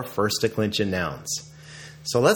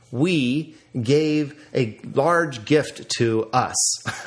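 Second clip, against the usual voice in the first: mock example; much slower than usual. Shown as a demonstration. Silly wrong-grammar example sentence.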